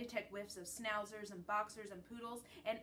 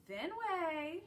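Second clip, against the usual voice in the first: hopeful call; 8 semitones higher, 5 dB louder than usual. A narrator's reading. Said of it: "she calls in a hopeful voice".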